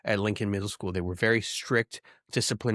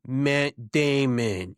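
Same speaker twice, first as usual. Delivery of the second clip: a drawn-out, slow Matt Damon name call; much slower than usual. Retold or imitated. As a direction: stretch the name out slowly like a movie line. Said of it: "you just have him saying".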